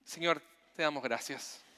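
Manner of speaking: earnest congregational prayer, rising in the middle. Real, not acted. Preacher leading the congregation in closing prayer. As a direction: pray sincerely for the church.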